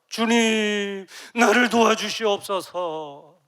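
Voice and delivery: loud, slow, pleading cry to God; crying prayer. Acted. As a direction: beg God at full voice. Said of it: "막 울면서 기도한 거예요". (울부짖는 기도)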